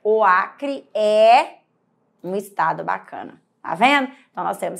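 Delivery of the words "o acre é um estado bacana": stretched example. Shown as a demonstration. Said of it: "você fala".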